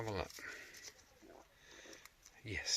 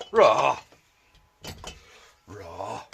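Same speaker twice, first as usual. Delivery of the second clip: a playful growled roar, louder at first; mock lion roar; 5 dB louder than usual. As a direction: roar like a cartoon lion for fun. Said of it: "said the lion".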